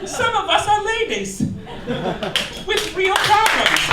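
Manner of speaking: high squealy mock gay-magazine voice, very high on the one-word answers; mock gay press voice. Comic mocking gay magazine headlines in a high camp squeal. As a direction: shriek the silly questions in a high camp voice.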